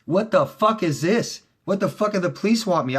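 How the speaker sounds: a replayed freaked-out what the fuck; retold panic. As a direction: act out panicked confusion at the door. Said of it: "I'm like".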